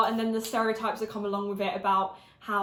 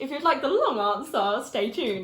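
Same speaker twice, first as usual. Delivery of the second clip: news reporter voice; 2 semitones higher, 4 dB louder than usual. Acted. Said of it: "a reporter on the news".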